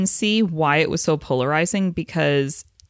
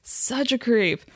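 slow, emphatic disgust; 7 semitones higher, slower than usual. Real, not acted. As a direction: draw it out in disgust. Disgusted repeat of line 85.

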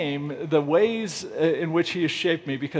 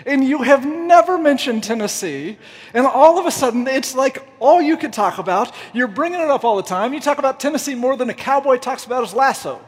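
raised-pitch mock exasperation; imitated indignant complaint, higher-pitched; calling him out; 4 semitones higher than usual. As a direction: play a fed-up friend confronting him. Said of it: "he calls me on it".

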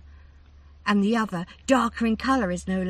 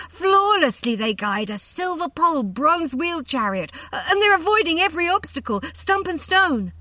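higher and louder, stammering in awe; breathless excitement; 6 semitones higher, 7 dB louder than usual. A narrator's reading. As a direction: let the wonder run away with her. Daughter describes riders, rising.

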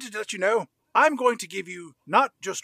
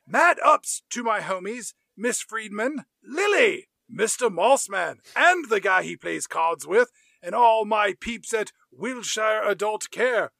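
voicing Brian; 3 semitones higher, 4 dB louder than usual. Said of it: "where he hears Brian say".

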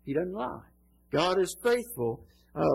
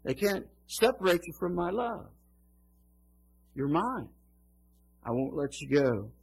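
quiet reassuring promise; 3 dB quieter than usual. Acted. God's voice reassuring.

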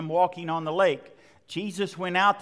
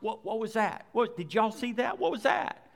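startled fright; 3 semitones higher, 4 dB quieter than usual. Retold or imitated. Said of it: "you're like".

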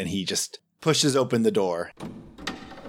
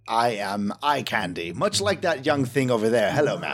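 vain flirt. Acted. Plays flirtatious vain Gregor.

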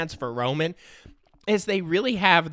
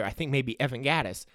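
normal talking voice

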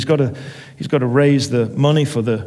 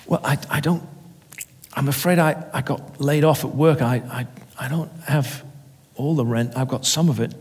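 frightened tenant; 4 dB quieter than usual. Acted. Frightened tenant stammering excuses.

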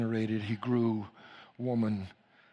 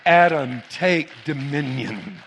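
emphatic command; 6 dB louder, slower than usual. Real, not acted. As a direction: drive the command home, drawn out. Preacher's climactic third call of the command.

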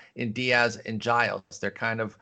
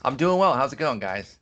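upbeat on-air host voice; radio voice; 2 semitones higher, 3 dB louder than usual. Real, not acted. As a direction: greet listeners like a radio guest. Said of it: "that's Paul's radio voice".

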